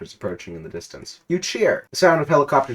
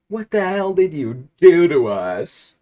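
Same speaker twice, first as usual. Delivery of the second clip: slow, higher, louder angry voice; angry demand; 7 semitones higher, 7 dB louder, slower than usual. Acted. Tickle Tipson yelling at the hero, angry. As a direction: demand it, outraged. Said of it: "Tickle Tipson exclaims".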